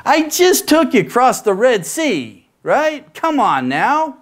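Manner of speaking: Moses doubting. Retold or imitated. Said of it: "Moses is thinking".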